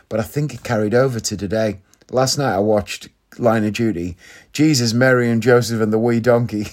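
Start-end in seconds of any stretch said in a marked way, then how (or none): 4.5-6.6 light mock Irish accent; Irish accent impression. Podcaster quoting Line of Duty, mock Irish accent. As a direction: have a go at a TV character's Irish accent. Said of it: "'cause he's Irish".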